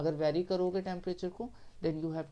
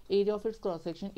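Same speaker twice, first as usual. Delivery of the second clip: slow dictation; 2 semitones higher, 4 dB louder, much slower than usual. Shown as a demonstration. Teacher dictates definition.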